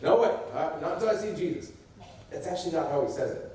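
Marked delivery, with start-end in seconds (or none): 0.0-1.7 casual refusal. Shown as a demonstration. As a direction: brush it off as a skeptic would. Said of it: "How many of you hear him saying it like that?".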